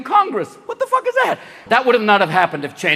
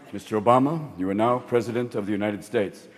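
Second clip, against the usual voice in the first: low, quiet, grave official voice; solemn announcer; 11 semitones lower, 7 dB quieter than usual. Retold or imitated. Imagined official at the inauguration, low grave announcement.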